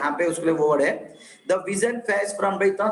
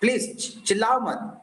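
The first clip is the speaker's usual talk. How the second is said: mild, slightly raised yell; pitched-up plea with a light yell; mock yell; 3 semitones higher, slower than usual. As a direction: act out an exasperated shout, half-hearted. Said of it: "मतलब चिल्ला के बोलो".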